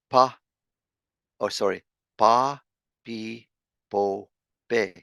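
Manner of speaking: "pa, pi, po, pe" with long vowels; long vowel syllables. Shown as a demonstration. Teacher correcting and drilling long-vowel p syllables. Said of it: "the four long vowels".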